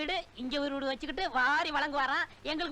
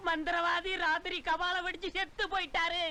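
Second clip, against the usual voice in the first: mock lament, pitched up with fake sobs; fake wailing; 4 semitones higher than usual. Plotting disciple rehearses a fake wail over the sorcerer's death. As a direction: pretend to mourn the sorcerer to the village. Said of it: "அப்படின்னு ஊருக்குள்ள கதை கட்டிட".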